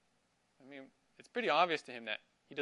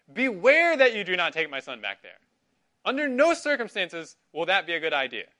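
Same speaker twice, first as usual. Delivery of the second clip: louder, forceful warning; emphatic command; 3 semitones higher, 9 dB louder than usual. Retold or imitated. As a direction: hammer home the warning like Abraham forbidding it. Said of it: "He's very emphatic".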